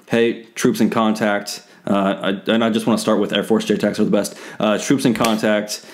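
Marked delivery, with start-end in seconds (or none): 0.1-1.6 slow, even report of contact; calm radio call. Retold or imitated. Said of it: "and calmly walk down". 4.8-5.8 slow, even report of contact; calm radio call. Retold or imitated. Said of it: "and calmly walk down".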